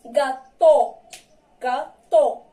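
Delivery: "Gâteau" said ga-to with a clear o at the end; model pronunciation. Shown as a demonstration. Teacher models "Gâteau" for pupils to repeat. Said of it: "Répétez avec moi trois fois".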